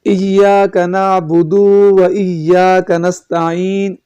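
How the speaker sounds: نعبد و drawn out very slowly; wrong elongated reading. Shown as a demonstration. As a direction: stretch the و after نعبد. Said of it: "اس میں نعبدو غلط پڑھ دیں". (نعبدو کو کھینچ کر غلط پڑھنا)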